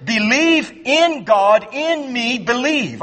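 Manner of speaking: Believe in God, in me, believe with believe stressed at both ends; slow bracketed command, believe at both ends; bracketed word order. Shown as a demonstration. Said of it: "when you look at the original text, it's like this".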